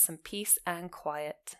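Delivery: "some peace and quiet" said slowly, each word given weight; focal point. Shown as a demonstration. Teacher repeats the key phrase for students, slow and deliberate. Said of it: "making it a focal point of the sentence".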